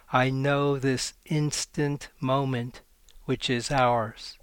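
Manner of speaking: measured, unhurried poetry reading with pauses between phrases; poem reading. Acted. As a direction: let each image land, read it like a poem. Poet reads her last poem.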